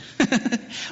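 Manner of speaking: quick light laugh to oneself; brief amused laugh; short chuckle. Real, not acted. Amused at posing hard question.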